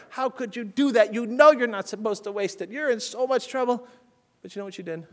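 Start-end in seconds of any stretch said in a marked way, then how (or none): 0.1-3.9 imagined stern scolding. Pretend. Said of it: "she could have been super hard".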